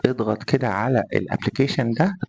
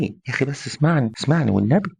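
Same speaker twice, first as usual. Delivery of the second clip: pleading; 3 semitones higher than usual. Retold or imitated. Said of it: "بتتحايل على الانسان".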